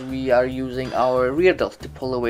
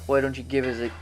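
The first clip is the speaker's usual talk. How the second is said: halting, stumbling restart; stammering; faster than usual. Real, not acted. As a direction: trip over the words and restart. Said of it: "I'm stammering a lot".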